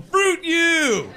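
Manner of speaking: sudden high, loud mock curse; outburst. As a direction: yell it as a comic curse. Mock curse at rejecting girl.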